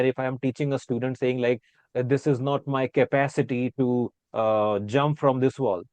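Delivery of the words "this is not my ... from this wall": Indian teacher quote. Shown as a demonstration. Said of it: "if I'm a teacher in India".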